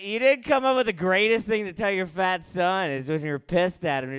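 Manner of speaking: ordinary delivery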